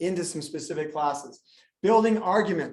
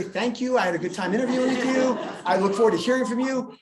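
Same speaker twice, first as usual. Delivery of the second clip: polite thank-you; 5 semitones higher, 5 dB louder than usual. Retold or imitated. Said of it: "Why would I say that?".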